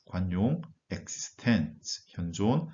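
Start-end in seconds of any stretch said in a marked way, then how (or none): 0.9-2.1 Existenz very slow, TENZ stressed; end stress. Shown as a demonstration. Teacher models Existenz, stressed ending. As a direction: drag it out and hit TENZ. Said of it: "어미의 강세를 두고 읽으셔야 합니다".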